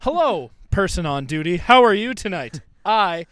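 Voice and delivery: overly proper fake-sober voice; trying to sound sober. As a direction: sound stiffly polite and sober. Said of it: "trying to act sober".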